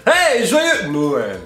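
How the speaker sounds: slow robotic greeting. Pretend. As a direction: drag it out like a robot. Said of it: "une voix de robot".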